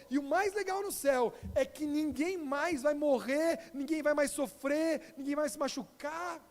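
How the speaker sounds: slow, tender explanation; gentle teaching. Retold or imitated. Pastor telling the children about heaven, slow and tender. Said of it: "E ele falou".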